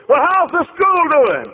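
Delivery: high, loud, excited; eager questioning. Retold or imitated. Visitor quizzes receptionist about glory days, high and excited. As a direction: pepper her with eager questions.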